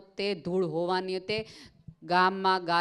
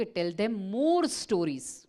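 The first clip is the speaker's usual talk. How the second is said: slow emphatic reply; much slower than usual. Retold or imitated. Einstein's reply repeated slowly.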